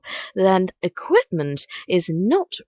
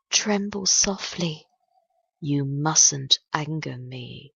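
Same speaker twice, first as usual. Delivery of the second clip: poem reading. Acted. Host reads a dark love poem to night listeners, solemn poem reading. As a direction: recite it in paced lines with long pauses.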